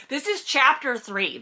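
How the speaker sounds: high-pitched exasperated repetition; indignant and worked up; comic fury. Real, not acted. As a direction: repeat it in fed-up disbelief. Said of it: "hit just astronomical heights of fury".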